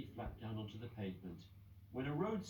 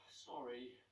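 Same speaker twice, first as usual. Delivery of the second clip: sighed; 2 semitones higher, 5 dB quieter than usual. Acted. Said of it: "sighed Peggy".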